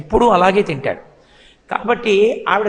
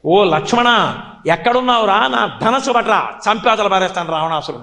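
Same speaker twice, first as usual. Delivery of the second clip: hammed-up battle cry of a child; mock cry from cradle. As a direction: call out to a brother, then rush the threat. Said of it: "ఒక్క పెద్ద కేకేశాడు ఉయ్యాల్లోంచి".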